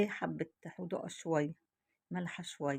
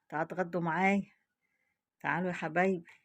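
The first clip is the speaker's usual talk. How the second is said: loud, quick call to lunch; 5 dB louder, faster than usual. Real, not acted. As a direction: call everyone to come eat. Inviting viewers to lunch. (نداء للغدا)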